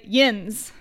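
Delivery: yins with a nasal yinz; saying yins like a Pittsburgh local; dialect word. Shown as a demonstration. Friend teaching a regional word, saying yins. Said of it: "Or you could say".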